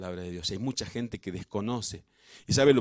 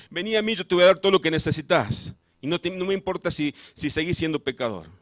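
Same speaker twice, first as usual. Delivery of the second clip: false god's soothing promise; 6 semitones higher, 6 dB louder than usual. Retold or imitated. False god voiced as indulgent.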